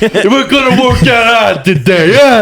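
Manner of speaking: high, pumped-up New York gym instructor; New York coach. Pretend. Friend imitates New York Orange Theory coach, hyped. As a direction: hype the class like a Jersey trainer. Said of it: "if they have a fucking New York accent".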